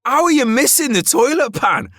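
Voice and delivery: high, incredulous disbelief; baffled, can't believe it; exasperated. Retold or imitated. Ranting to his mate about dirty toilets, high exasperated disbelief. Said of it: "And I'm like".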